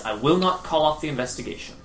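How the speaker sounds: soft, quick, composed refusal; calm. Acted. Woman refusing her yelling brother upstairs, calm and soft. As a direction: refuse quietly without rising to the anger. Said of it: "obviously calm and normal voiced".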